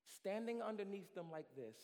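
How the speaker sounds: usual speaking voice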